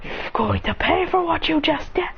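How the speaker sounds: vengeful threat, voice pushed up; acted angry threat. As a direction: growl it as a raging fire beast. Transformed hero threatens enemy.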